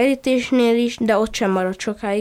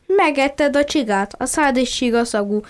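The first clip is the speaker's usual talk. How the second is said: exclaiming; 3 semitones higher than usual. Acted. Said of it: "Madzag felkiáltott".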